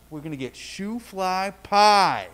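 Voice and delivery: slow, savoring reveal of a treat; mildly excited announcement. Retold or imitated. Dad telling little son about dessert, mildly excited. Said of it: "Isn't that exciting?".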